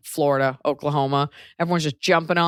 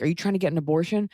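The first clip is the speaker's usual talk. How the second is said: sly mock doctor. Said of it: "Be like".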